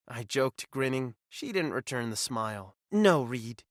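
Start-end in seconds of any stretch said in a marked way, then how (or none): 2.9-3.6 firm. Acted. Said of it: "her voice firm".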